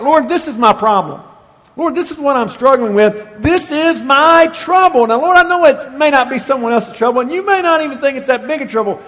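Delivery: rising, pleading prayer that speeds up and lands on my trouble; urgent pleading prayer, lifting in pitch; earnest prayer. Pretend. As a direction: plead to the Lord as if alone in the cave. Voices a pleading personal prayer.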